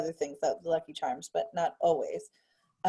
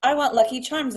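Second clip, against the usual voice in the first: demanding; 5 semitones higher than usual. Retold or imitated. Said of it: "started sounding very demanding".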